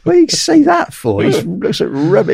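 rising in pitch, incredulous and outraged; exasperated, voice climbing high on what do you say that for; indignant protest. Retold or imitated. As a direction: call out the fake compliment. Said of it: "I said".

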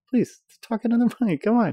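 high, pleading through a laugh; laughing plea. Real, not acted. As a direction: coax her while laughing. Father pleading with his giggling daughter.

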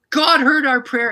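slow, high, loud exclamation; amazed cry. Retold or imitated. Wife realizing prayer was answered, loud amazed cry. Same words repeated as a cry.

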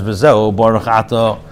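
V'Zeu Baruch Ato read slowly, word by word; measured, deliberate recitation of the text; slow quoted reading. Shown as a demonstration. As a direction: lay out V'Zeu Baruch Ato slowly as the Alter Rebbe's words. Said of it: "So the Alter Rebbe says".

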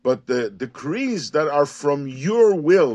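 "your" marked as the key word; weight the word "your"; stress on YOUR. Shown as a demonstration. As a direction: lean on "your" in "from your will". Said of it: "There's an emphasis on the you".

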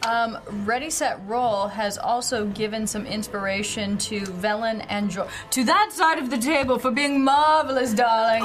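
sultry voice. Acted. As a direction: purr it like a perfume ad. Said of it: "Was it the sultry voice that did it?".

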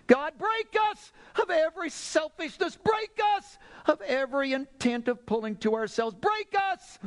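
high, crying plea to God; fervent prayer at full stretch; impassioned preaching. Real, not acted. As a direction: cry out each petition from the pulpit.

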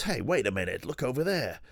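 high, hammed-up surprise at spotting Sid; mock surprised discovery. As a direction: act like you've just spotted someone across the room. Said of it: "And suddenly goes".

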